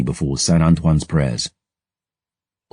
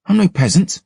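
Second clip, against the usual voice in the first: scowling. Acted. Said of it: "I scowled".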